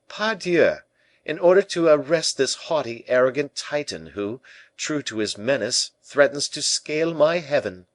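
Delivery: high, emphatic royal outburst; indignant king. A narrator's reading. King resolves to arrest his haughty minister, indignant and loud.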